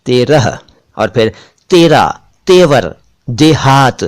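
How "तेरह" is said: "तेरह" said TEY-rah, h at the end; careful word-list "तेरह"; correct pronunciation. Shown as a demonstration. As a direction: say "तेरह" with a close e and light final h. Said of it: "यह है तेरह".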